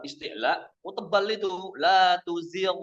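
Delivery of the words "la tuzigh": la tuzigh with a heavy gh, pitched up; wrong thick gh. Shown as a demonstration. Teacher showing the wrong thick reading. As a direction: overthicken the gh in tuzigh, the error.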